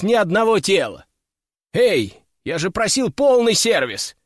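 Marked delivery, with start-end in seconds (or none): 1.7-4.2 calling out. Acted. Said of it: "крикнул я им вслед".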